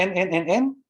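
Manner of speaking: repeating en, en, en, en haltingly; imitated stammer. Coach quoting the student's hesitation, halting repetition.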